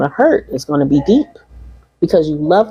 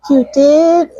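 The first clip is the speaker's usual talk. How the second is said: high, surprised little gasp of a question; mother touched and caught off guard; surprised mom; 10 semitones higher, 3 dB louder than usual. Retold or imitated. Retelling the TikTok, mom's surprised reply. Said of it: "And she's like".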